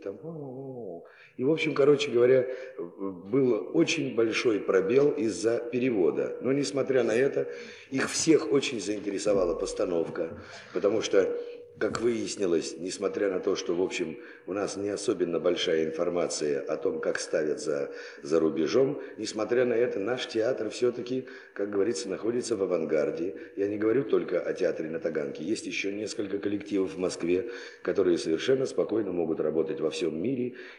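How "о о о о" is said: high, soft, flat, even, level drone. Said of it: "таким ровным голосом говорит".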